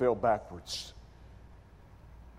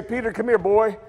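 higher, louder beckoning call; calling someone over; 6 semitones higher, 4 dB louder than usual. Retold or imitated. Jesus hypothetically calling Peter over, loud and casual. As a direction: summon him like a boy. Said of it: "Does he call Peter and say".

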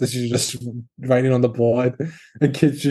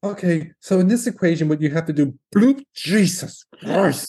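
mock professor caught out; 2 semitones higher than usual. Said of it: "Just like".

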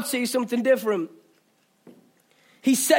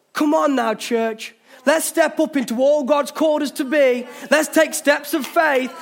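rousing call. Acted. Pastor rallies the church.

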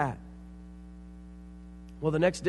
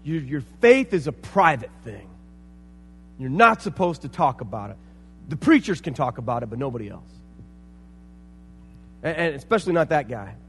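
put-on stern old man; 3 semitones lower, 5 dB louder than usual. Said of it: "and here's what he said".

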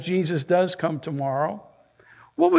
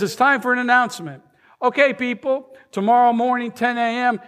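lightly voiced announcement, higher and quick; a touch of a store manager addressing the crowd, pitched up and fast; manager's announcement; 6 semitones higher, faster than usual. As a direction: manager announcing Santa to shoppers, mock announcer tone. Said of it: "He says".

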